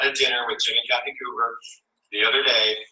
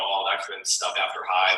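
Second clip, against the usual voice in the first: ordinary talk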